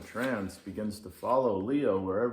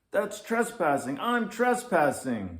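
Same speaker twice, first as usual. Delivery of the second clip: higher, louder mock panic; panicked; 8 semitones higher, 6 dB louder than usual. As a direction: realize you're in trouble. Lynx panics about trespassing.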